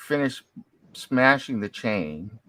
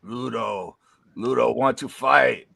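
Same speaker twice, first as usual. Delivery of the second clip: dopey cartoon bellow. Giant character answers the paladin.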